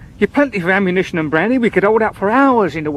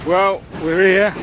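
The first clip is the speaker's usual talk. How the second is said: whining; 3 semitones lower than usual. Acted. Servant arriving at unknown station, whining. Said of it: "Oh, stop whining".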